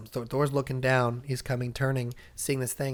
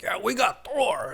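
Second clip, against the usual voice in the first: mock cheer; 10 semitones higher, 4 dB louder, slower than usual. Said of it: "And they're like".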